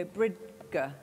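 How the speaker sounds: put-on bridge said as Bridger, a child's slip adding an er; a six year old misreading bridge aloud as Bridger; mispronounced bridge. Child reading aloud in class says bridge wrongly as Bridger. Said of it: "and you go".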